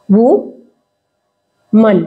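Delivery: वुमन stretched very slowly, each sound held; slow drawn-out वुमन. Shown as a demonstration. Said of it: "छोटा खींच रहा है".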